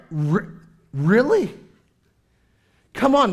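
high, loud disbelief; mock exasperated really come on; incredulous parent. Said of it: "And you're like".

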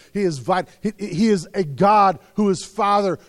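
normal talking voice

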